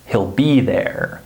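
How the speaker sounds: HE'LL reduced to sound like "hill"; unstressed HE'LL, no EE sound; short I contraction. Shown as a demonstration. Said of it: "Do you hear the I vowel sound".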